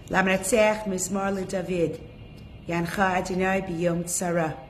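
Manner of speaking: steady prayer recitation in Hebrew; chanting Tehillim for the sick; reciting psalms. Acted. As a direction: read the psalm out like leading a prayer group. Leads the group in Tehillim.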